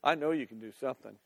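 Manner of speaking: low, quick, quiet assurance; with faith. Acted. Martha to Jesus, trusting despite her loss, with faith. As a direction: say it simply, trusting him. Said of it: "could have said it with faith".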